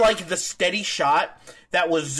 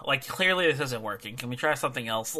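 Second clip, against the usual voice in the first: mock exasperation after a heavy sigh; exasperated; 2 semitones lower, 4 dB quieter, faster than usual. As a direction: imitate someone fed up, without aggression. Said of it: "he's just exasperated".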